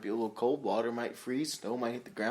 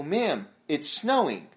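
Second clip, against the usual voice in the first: deadpan slow; 2 semitones higher, 3 dB louder, slower than usual. Retold or imitated. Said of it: "I go".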